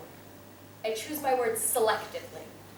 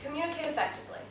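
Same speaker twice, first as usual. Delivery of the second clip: poem title; 4 semitones higher, 3 dB quieter, much faster than usual. Shown as a demonstration. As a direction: announce the poem's title, measured. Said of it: "So here goes".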